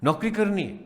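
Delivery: mock complacent teacher, pitch often rising high; dismissive teacher. Teacher voicing colleagues who think little children are easy, dismissive. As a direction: imitate a teacher shrugging off the work. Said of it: "ایک تو یہ رویہ ہے".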